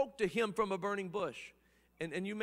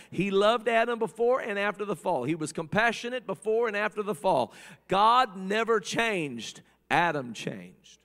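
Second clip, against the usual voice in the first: emphatic preaching; 7 dB louder than usual. Real, not acted. Preacher insists God never changed.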